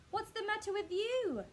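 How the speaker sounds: high, loud startled husband; alarmed Mr Twit. A narrator's reading. Mr Twit barks at his screaming wife, loud and high. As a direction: snap at her, rattled.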